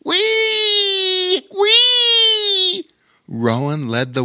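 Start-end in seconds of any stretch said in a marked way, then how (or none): 0.0-2.9 much higher, louder joyful whoops; gleeful yell. Acted. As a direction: whoop with delight on the ride. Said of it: "Darwin yelled".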